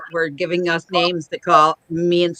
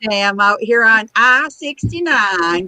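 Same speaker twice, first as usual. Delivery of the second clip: news traffic report. Retold or imitated. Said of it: "sounds like you do the news".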